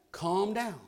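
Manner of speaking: quietly settling, dropped right down; soothing. Retold or imitated. Father at the store calming down, softly soothing. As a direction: talk himself down gently. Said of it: "he kept saying".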